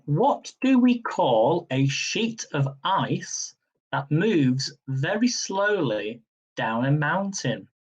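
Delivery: slow, deliberate quiz-question read; slow, measured quiz host; quizmaster reading. Acted. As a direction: spell the question out slowly for the players. Reads quiz question slowly.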